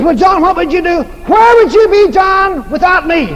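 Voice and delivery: high, teasing wife voice. Retold or imitated. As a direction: needle him playfully.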